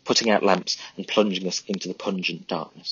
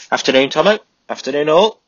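higher and louder, breezy hello; cheery grinning greeting; 8 semitones higher, 9 dB louder than usual. Acted. Charlie strolls in greeting his mates, cheerful and loud. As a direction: Charlie breezes into the dugout, all grin. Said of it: "he said, grinning from ear to ear".

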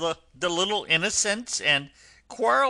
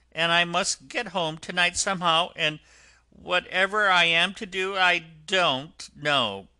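tearful washerwoman; 8 semitones higher, 6 dB louder than usual. Acted. Toad disguised, pleading with the driver, high and tearful. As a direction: wail your hard luck like a poor washerwoman. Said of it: "crying afresh".

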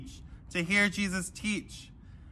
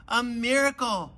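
a higher, lightly raised storyteller's yell; mock yell; 5 semitones higher than usual. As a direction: exclaim it as an astonished fisherman. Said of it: "yelled Andrew".

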